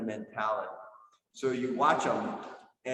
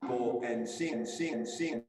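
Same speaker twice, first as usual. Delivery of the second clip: bad connection; slower than usual. Real, not acted. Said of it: "you're breaking up there".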